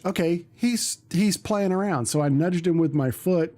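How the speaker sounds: ordinary talk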